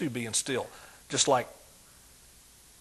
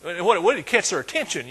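ordinary talk, nothing marked

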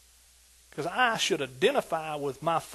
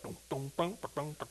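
imitated bass; 3 semitones lower, 11 dB quieter than usual. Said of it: "that bass will start".

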